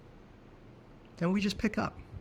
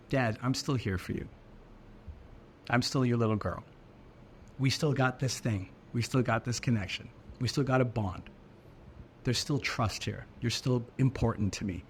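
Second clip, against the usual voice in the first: tender imagined daughter; 4 semitones lower than usual. Retold or imitated. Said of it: "she was trying to say".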